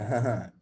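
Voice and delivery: low smug chuckle; put-on self-satisfied laugh; proud laugh. Proud boyfriend gloating, low laugh. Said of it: "started to get proud".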